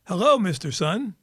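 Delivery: bright, lilting hello to the sun; a leader cheerfully greeting the morning sun; mock-sweet greeting; cheery greeting. Secretary General greets the sun.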